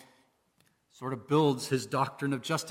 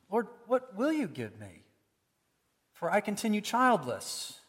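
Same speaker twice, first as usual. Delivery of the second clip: genuine question; 5 semitones higher than usual. Shown as a demonstration. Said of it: "it's just a genuine question".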